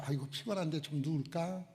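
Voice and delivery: soft, weary mock sigh before lying down; a touch of yawning weariness; tired sigh. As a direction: sigh it out like a tired person after a long day. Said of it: "그런 누우는 것이 아니에요".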